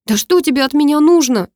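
a mild tearful outburst; crying. A narrator's reading. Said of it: "заплакала Карина". (высоко, громче, чуть со слезами)

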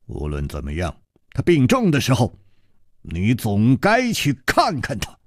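put-on calm older hero. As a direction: speak low and unhurried, gently reproaching. Chu Liuxiang advises.

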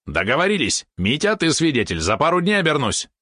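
high, excited agreement; delighted yap. A narrator's reading. Valeron seals the deal with his master, high and delighted. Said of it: "обрадованно тявкнул".

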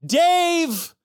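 high drawn-out call. Acted. Receptionist summoning the vet tech from the back, calling out. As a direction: sing out the name toward the back.

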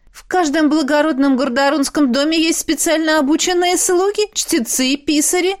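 high, haughty concubine's voice; proudly explaining. A narrator's reading. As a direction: explain it with proud, lofty superiority, pitched high. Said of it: "горделиво пояснила наложница".

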